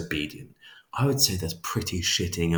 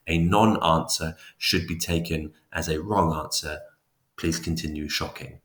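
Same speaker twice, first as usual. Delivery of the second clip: calm authority; 2 semitones lower than usual. Retold or imitated. Experimenter calmly orders subject to keep shocking, authoritative. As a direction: state the rule coolly, brooking no argument. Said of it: "very calmly but authoritatively".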